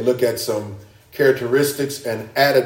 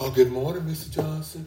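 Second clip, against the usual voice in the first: put-on humble meekness, soft and pitched up; 5 semitones higher, 8 dB quieter than usual. Acting out a person feigning humility in a greeting, mock-humble, meek tone. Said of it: "Humble tone, sound of meek".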